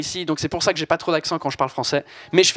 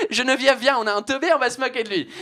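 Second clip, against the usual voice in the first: higher, fast, gleeful call; mocking baker; 5 semitones higher, faster than usual. Baker calling Geneviève over to mock the customer, gleeful. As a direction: baker summoning her colleague to mock.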